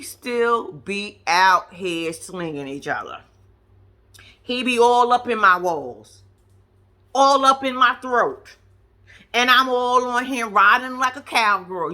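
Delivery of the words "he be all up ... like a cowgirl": mock. Mocking their sex talk.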